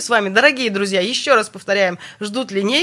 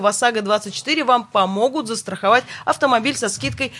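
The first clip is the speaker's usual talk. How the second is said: radio announcer; 2 semitones higher than usual. Acted. Host switches to sponsor read.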